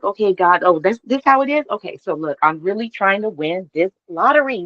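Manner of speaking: half-exasperated bargaining with God; talking straight up to God, exasperated; pleading with God. Retold or imitated.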